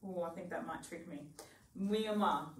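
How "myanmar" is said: Myanmar sounded out as mee-uh-MA; careful attempt. Shown as a demonstration. Learner repeating a new name after Colin, careful attempt. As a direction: say Myanmar carefully in three syllables. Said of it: "so I can have a go".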